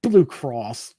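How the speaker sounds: loud scoffing snort of a reply; sneering dismissive scoff. Retold or imitated. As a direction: scoff at the idea, mock-outraged. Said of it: "Grandpa scoffs".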